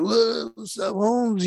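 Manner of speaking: a hint of cholo swagger; cholo greeting. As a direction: imitate cholos greeting someone, lightly. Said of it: "a bunch of cholos walk in".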